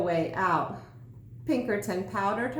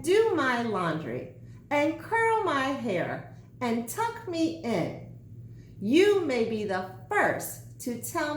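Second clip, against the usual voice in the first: bossy sandwich; 3 semitones higher than usual. Acted. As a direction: order him about with mock congratulations. Sandwich listing chores.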